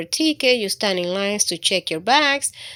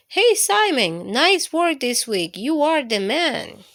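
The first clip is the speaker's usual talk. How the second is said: cheeky germ voice; 4 semitones higher than usual. Acted. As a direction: greet him like a sneaky germ buddy. Germs greet Simon in story.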